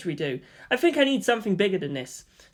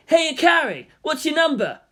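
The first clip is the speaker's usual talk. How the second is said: friendly call; 10 semitones higher, 5 dB louder than usual. Acted. Student calling out.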